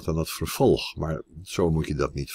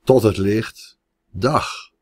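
high, slow, calling out the words; dramatic proclamation; 5 semitones higher, 5 dB louder, slower than usual. Shown as a demonstration. Teacher reading the verse more dramatically, high and slow. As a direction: proclaim it like a herald. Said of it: "veel dramatischer".

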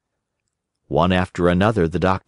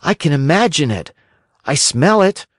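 put-on whiny puppet boy; 10 semitones higher than usual. A narrator's reading. Pinocchio refuses the fairy's bitter medicine, whining. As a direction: refuse like a stubborn child.

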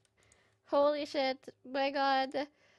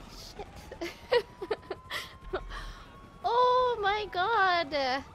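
choked up; 3 semitones higher, much slower than usual. Real, not acted. Tearful after huge donation.

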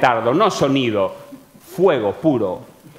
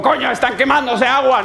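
shocked cry; 13 semitones higher, 4 dB louder than usual. Retold or imitated. Bystander shocked at burning old people.

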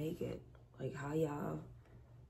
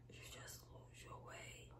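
despairing whisper; 14 dB quieter than usual. Real, not acted. Confessing to viewers, a drained fading whisper. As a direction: let it trail into nothing.

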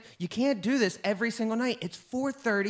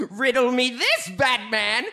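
gleeful Riddler taunt; 5 dB louder, slower than usual. Acted.

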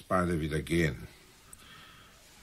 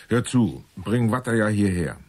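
firm order; 7 dB louder than usual. Acted. Phone order to a colleague.

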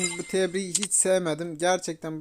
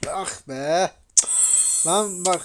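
higher, louder burst then a breathy laugh; excited; 3 semitones higher, 3 dB louder, much slower than usual. Real, not acted. Gamer reacting to a near miss, excited.

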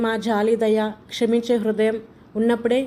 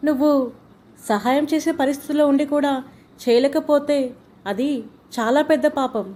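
higher, shocked reproach at her son; indignant scolding; 4 semitones higher than usual. Acted. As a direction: scold him, outraged and hurt. (కొడుకును తిడుతున్న తల్లి, ఆవేశంగా)

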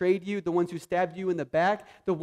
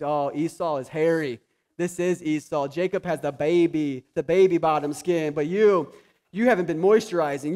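mock Isaac voice; 3 semitones lower than usual. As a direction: play the blind father poking fun. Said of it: "He goes".

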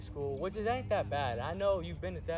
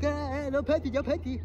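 lightly voiced, higher whiny taunt; mocking a wimp; 9 semitones higher, 5 dB louder than usual. Coach imitating how a weak fighter acts. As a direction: taunt like a weakling. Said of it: "like a little bitch would".

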